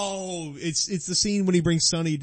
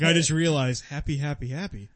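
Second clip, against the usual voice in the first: realizing. Shown as a demonstration. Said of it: "Say it like you're realizing happy".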